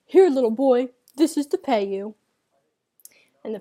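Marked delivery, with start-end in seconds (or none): 0.1-2.2 a lightly voiced mock priest, louder; boy playing the priest, a touch grand; imitating the priest. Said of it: "imitating him".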